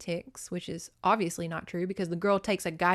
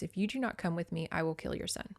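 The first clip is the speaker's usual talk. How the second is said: quiet threat; 6 dB quieter, faster than usual. Retold or imitated. McHenry threatens Blue Beads.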